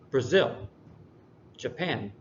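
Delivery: Brazil and Japan stressed on the second syllable. Shown as a demonstration. Teacher showing students the second pattern, second syllable stressed in Brazil, Japan. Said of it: "the second syllable is, is focused on more".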